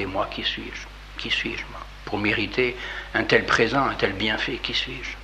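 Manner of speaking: softly voiced, awed self-questioning; hushed, bewildered humility; humbled confusion. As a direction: murmur it as a humbled man, overwhelmed by the gift. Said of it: "cette confusion".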